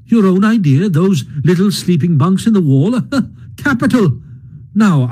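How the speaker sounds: lightly voiced brisk Rat. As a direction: bustle about with hearty cheer.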